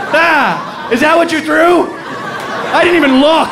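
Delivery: high, over-excited dog voice; dopey excited Dalmatian. Acted. Dalmatian to the stick thrower, high and giddy. Dim Dalmatian returning with torn leg.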